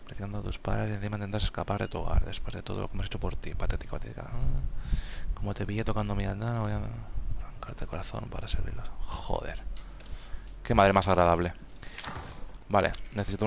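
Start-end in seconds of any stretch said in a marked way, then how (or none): 0.0-8.9 soft, threatening half-whisper; menacing mother voice. Acted. Reads note in mother's voice. 9.0-9.6 whispered swear; cursing under breath. Real, not acted. Reacts to creepy note.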